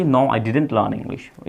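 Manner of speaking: each word slow and distinct; slow model sentence. Shown as a demonstration. Teacher gives students the English question, slowly. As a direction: dictate the question clearly. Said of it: "नहीं सीखी".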